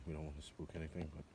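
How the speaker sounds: hushed whisper so nothing spooks. Real, not acted. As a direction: keep it to a low breathy whisper. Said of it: "sorry for whispering".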